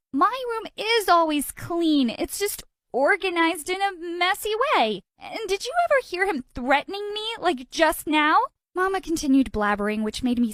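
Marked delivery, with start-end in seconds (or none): 0.1-8.5 whiny protest. Acted. Daughter protesting to Mama who scolds her, high whiny protest. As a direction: whine back in self-defence.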